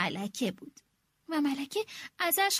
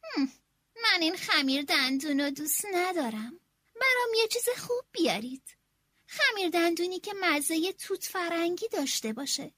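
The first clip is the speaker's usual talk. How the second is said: grumbling. Acted. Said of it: "غرغر کنان گفت".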